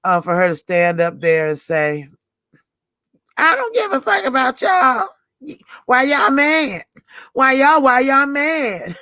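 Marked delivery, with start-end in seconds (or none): 3.4-9.0 brash, much higher mock taunt at the crowd; Tracy on stage taunting the angry audience, brash and defiant. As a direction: sass them like you don't care one bit.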